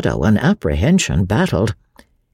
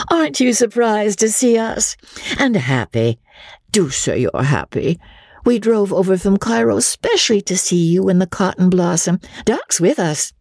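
higher, coaxing female voice; gushing actresses; 7 semitones higher than usual. A narrator's reading. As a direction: play the eager flirt. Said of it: "they cried".

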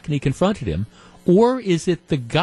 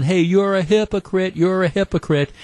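mock yelling; 5 semitones higher than usual. Cubs fan yelling at Christie as he walks away, mock yell. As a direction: imitate an angry heckler calling out.

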